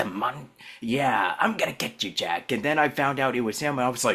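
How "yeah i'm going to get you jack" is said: put-on cartoon villain voice. Showing how a villain on Samurai Jack talks: imitating a Samurai Jack villain. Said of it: "he kinda talks a little like this".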